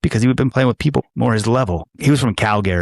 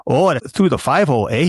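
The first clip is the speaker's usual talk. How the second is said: mild mock Canadian accent; lightly imitated Canadian rival; 4 semitones higher than usual. Pickleball opponent crowing after his shot, mild Canadian accent. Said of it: "your best Canadian accent".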